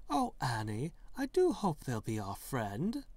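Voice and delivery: prim British reply to herself; British accent. Acted. The same woman answering herself in a light British accent. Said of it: "answers herself in a British accent".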